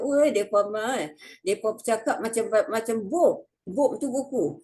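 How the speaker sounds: mock a Kedah villager teasing, fast; Kedah dialect. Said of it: "orang Kedah dia nanti kata". (loghat Kedah orang kampung mengejek)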